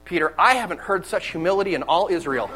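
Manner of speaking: joking Jesus with a laugh; laughing mock praise. Preacher joking as Jesus praising Peter, laughing. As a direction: tease Peter through laughter. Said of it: "what's Jesus gonna say next?".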